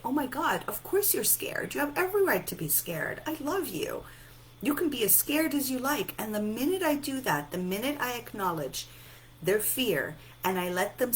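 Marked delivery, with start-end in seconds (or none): 0.0-6.1 reassuring parent. Acted. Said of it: "sit with them and say".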